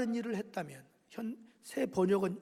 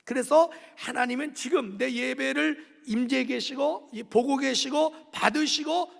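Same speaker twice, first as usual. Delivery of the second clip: forceful sermon delivery, building louder to the end; emphatic preaching; 6 dB louder than usual. Acted. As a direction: proclaim it, punching each phrase harder.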